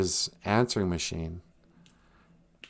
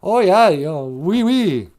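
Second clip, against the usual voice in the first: raised, louder put-on wife voice; hammed-up foreign wife agreeing; mock wife; 7 semitones higher, 5 dB louder than usual. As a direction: play the wife with a lifted pitch. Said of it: "And she's all".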